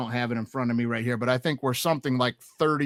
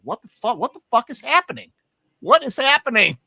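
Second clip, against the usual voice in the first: high, loud mock panic at the screen; exasperated high-pitched what-the-fuck; retold disbelief; 10 semitones higher, 6 dB louder than usual. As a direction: relive the shock of a blown bet. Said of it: "and I'm like".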